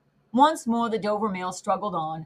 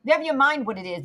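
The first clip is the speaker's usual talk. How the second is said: retorting; 4 semitones higher, faster than usual. Acted. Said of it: "the guard retorted".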